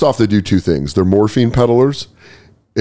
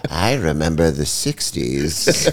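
put-on low, slow old lady reminiscing; old woman voice; 6 semitones lower, 5 dB quieter, much slower than usual. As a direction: reminisce like a dazed grandma. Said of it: "She's like".

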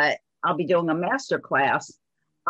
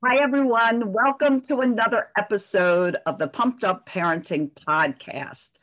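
dull, muffled microphone sound; 2 semitones higher than usual. Real, not acted. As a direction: voice through a muffled mic. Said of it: "I apologize in advance for my muffled microphone".

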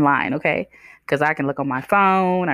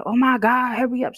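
mock impatient whine; 8 semitones higher than usual. Mimicking impatient lady.

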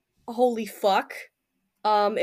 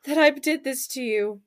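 soft, hushed, grieving apology; Ella whispering sorry at her friend's corpse; tearful whisper; 5 dB quieter than usual. Acted. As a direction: kneel and apologise through quiet tears. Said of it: "silently crying".

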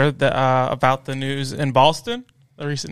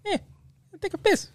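put-on Boston accent; 5 dB quieter than usual. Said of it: "trying to do Boston".

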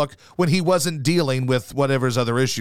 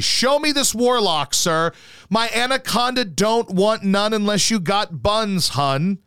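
hammed-up intrigued gent; 7 semitones higher than usual. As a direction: play a pompous curious gentleman. Imagined self paying to look.

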